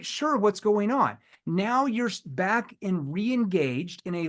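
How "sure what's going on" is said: slow, louder, higher guarded reply; polite but closed off; guarded prospect. Retold or imitated. Prospect answering the salesman, guarded and slow. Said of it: "They're always gonna say".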